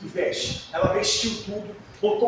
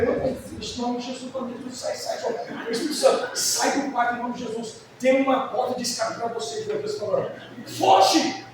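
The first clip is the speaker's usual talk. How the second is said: mock rebuke prayer. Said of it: "Eu falei".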